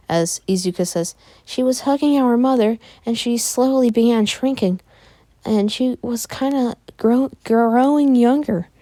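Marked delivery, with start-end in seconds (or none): 1.5-8.7 put-on high girl's voice, slowing at the end; distressed sister. Izuka explains to the doctor what she saw, high and halting. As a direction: recount it high, dragging out the last words.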